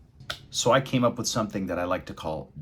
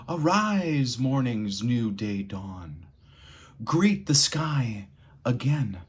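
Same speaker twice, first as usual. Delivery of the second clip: dynamic dramatic reading. Shown as a demonstration. Teacher showing the lively way to read the passage, dramatic. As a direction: make every line come alive with big contrasts. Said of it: "Let's go through and do a reading".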